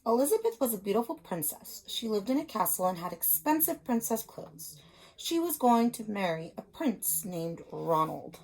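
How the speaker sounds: put-on reading a picture book to young children; storybook reading. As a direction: tell it like a teacher at story time. Teacher reads picture book aloud.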